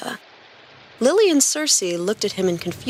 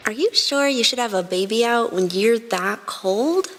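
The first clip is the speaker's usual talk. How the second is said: warning; 3 semitones higher than usual. A narrator's reading. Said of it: "she asked warningly".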